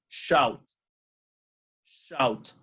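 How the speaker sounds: teacher modeling Shout for repetition; model word shout. Shown as a demonstration. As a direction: Shout said slowly and clearly for the class to repeat. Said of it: "please repeat after me".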